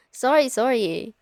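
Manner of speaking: giggling through the sorry; laughing after teasing him, a giggly sorry; laughing apology. Acted.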